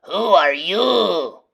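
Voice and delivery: slow, loud bandit question; gruff challenge. A narrator's reading. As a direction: demand an answer. Gang leader challenging.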